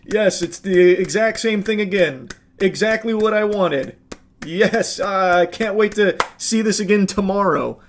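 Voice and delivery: mock fan with a forced laugh; imitating eager fan. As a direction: play a pleased, easily amused viewer, sarcastically. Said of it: "how anyone would, like, still go".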